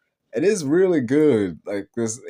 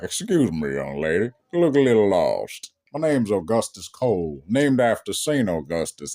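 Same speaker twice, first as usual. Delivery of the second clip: foghorn leghorn voice; 3 semitones lower than usual. Retold or imitated. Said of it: "just foghorn leghorns".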